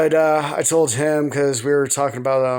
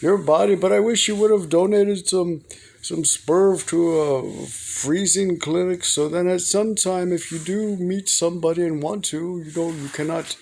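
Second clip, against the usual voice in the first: imitating dad; 5 semitones higher than usual. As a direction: lightly play the pleading father. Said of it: "he's always telling me".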